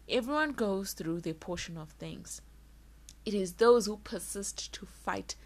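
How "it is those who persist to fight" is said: forceful breathy whisper; whispered conviction; intense whisper. Real, not acted. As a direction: press it out in a whisper. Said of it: "emphatic whispered point".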